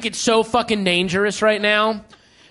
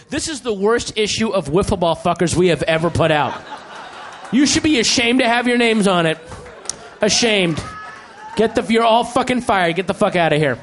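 mock stern dressing-down that ends in a firing; scolding editor, partly shouted; angry boss; 3 semitones lower than usual. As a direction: fire them all in a hammed-up rage.

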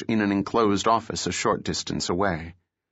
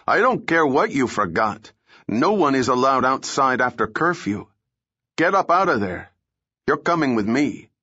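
angry guard; 5 semitones higher than usual. Acted. Guard confronting intruders after curfew.

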